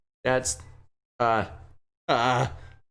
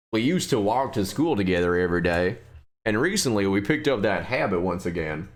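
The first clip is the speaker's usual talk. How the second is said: put-on Southern accent; 5 semitones lower than usual. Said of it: "Yes, this is Southern".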